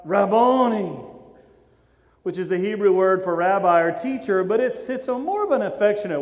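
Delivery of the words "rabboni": drawn-out mild outcry; crying out. Acted. Mary recognizing her risen teacher, crying out. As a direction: call it out in recognition. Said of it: "She cries out".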